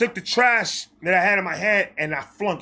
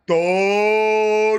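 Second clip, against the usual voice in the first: talking rat; 4 dB louder than usual. Retold or imitated. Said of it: "a rat came out of the trash can and said".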